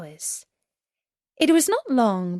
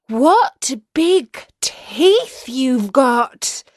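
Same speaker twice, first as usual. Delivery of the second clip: put-on little girl voice; 4 semitones higher, 6 dB louder, much slower than usual. Girl wonders at grandmother.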